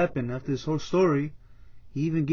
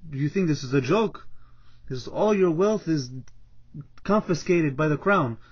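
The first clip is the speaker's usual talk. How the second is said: stern, mounting accusation; angry king. Acted. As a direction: confront the advisor as a wronged king. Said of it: "gets angry".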